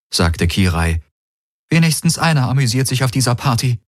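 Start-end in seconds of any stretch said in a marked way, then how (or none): 1.7-3.8 toneless voice. A narrator's reading. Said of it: "Ihre Stimme klang tonlos".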